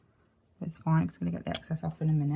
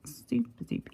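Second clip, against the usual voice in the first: whispering; 7 semitones higher, 5 dB quieter than usual. Real, not acted. Whispered aside while dusting.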